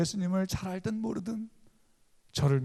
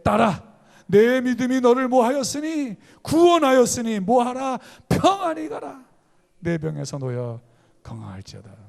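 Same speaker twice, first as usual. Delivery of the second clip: preaching proclamation; 7 semitones higher, 7 dB louder than usual. Acted. Pastor proclaiming Jesus' healing words, high and loud. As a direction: thunder the words of Jesus from the pulpit.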